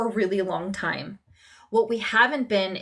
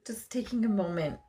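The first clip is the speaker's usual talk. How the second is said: getting emotional; 5 dB quieter than usual. Real, not acted. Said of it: "Oh, I'm getting emotional".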